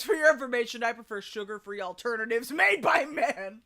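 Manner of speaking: a hint of a B-movie leading man; stilted old movie melodrama. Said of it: "Guy from B Movie voice".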